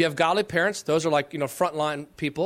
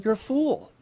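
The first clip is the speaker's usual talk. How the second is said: kindly God rebuke; 3 semitones higher than usual. Retold or imitated. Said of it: "he says kindly".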